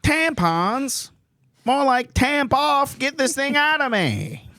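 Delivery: high squeaky puppet voice. Pretend. Voicing a vagina puppet in a high squeaky voice. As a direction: play it as a little high-pitched puppet.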